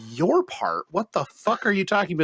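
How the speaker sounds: mock-indignant, rushed question; acted disbelief. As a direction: retell a baffled, indignant comeback. Acted baffled reply to co-host.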